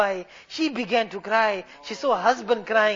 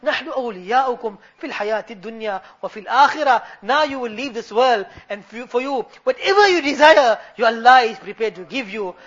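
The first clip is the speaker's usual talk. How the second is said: swelling, heartfelt religious oratory; impassioned preaching; 4 dB louder, faster than usual. Real, not acted. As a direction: preach it earnestly to a congregation. Preaches throughout.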